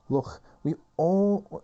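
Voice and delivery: put-on high, loud, slow bossy girl. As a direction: push the words out like a bossy girl. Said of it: "Meru saying".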